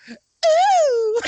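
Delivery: squealed high ooh, loud; high falsetto ooh. Pretend. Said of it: "He'll go".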